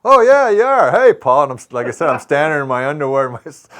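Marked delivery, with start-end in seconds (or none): 0.1-1.4 loud, high, scoffing retort; big sarcastic greeting to a supposed celebrity; mock disbelief. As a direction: shout it back, not believing a word. Retold disbelief at star on doorstep.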